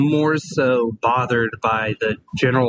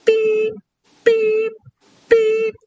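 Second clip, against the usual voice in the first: high-pitched imitated machine beep; lift beeping; 3 dB louder, much slower than usual. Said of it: "it just does this".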